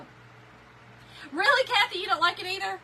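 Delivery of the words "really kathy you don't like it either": high, loud disbelief; astonished. Real, not acted. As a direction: sound shocked at the news. Reacting to viewer comment.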